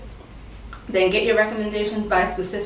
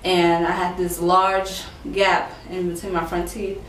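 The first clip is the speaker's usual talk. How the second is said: slightly lisped speech through a retainer; words shaped around a retainer; talking with retainer. Real, not acted. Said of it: "I have this retainer in".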